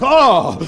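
loud, high "Oh!"; mock-horrified outburst; shocked cry. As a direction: cry out as if appalled. Acts the man's horrified reaction.

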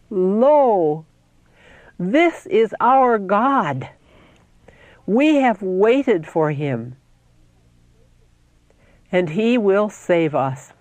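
slow, exultant scripture proclamation; joyful strains. A narrator's reading. Saints greeting their God, slow joyful proclamation. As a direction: proclaim it slowly, drawing out each phrase. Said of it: "in joyful strains, saying".

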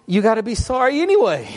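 tossing it off with a laugh; laughing advice. Retold or imitated. Pastor laughing as he tells them to be sorry.

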